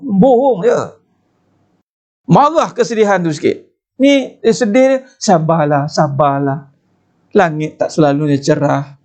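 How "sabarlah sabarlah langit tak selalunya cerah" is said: mock consoling. People glibly advising the sad to be patient, mock consoling. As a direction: imitate someone soothing with a stock phrase. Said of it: "Kena pula yang mainkan, sabar".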